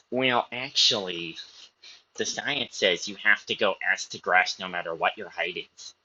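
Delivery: lightly voiced nerd correcting someone with «Well, actually»; nerd accent. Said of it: "That's my, that's my nerd accent".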